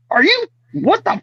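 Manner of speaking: high-pitched mock exasperation, breaking into laughter; mock disbelief. Actor walking in and looking over on set, mock disbelief. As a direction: squawk it as comic incredulity. Acted indignant outburst on set.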